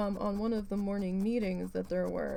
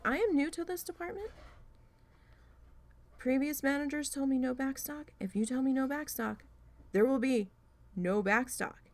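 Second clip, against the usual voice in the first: indignant; 6 semitones higher than usual. Retold or imitated. Arguing back at angry boss.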